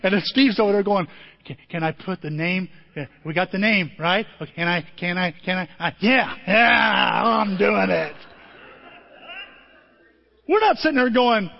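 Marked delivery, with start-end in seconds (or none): 1.4-8.2 eager fidgety grandpa. Retold or imitated. Steve eager to post name.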